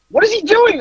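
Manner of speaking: high shocked cry; shocked onlookers. Retold or imitated. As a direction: gasp it out as the horrified crowd. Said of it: "everybody was like".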